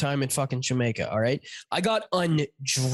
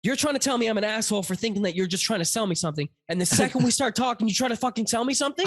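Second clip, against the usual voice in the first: higher, indignant confrontation; retold incredulous outrage; 5 semitones higher than usual. Passenger confronting the driver's hypocrisy, retold indignation. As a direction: build to a disbelieving question.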